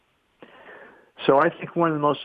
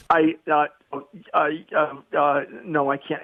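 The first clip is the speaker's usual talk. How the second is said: higher, halting, tongue-tied protest; acting out being flustered and lost for words; mock panicked stammer; 4 semitones higher than usual. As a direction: stammer your way into a refusal. Acts his stammered panic to dean.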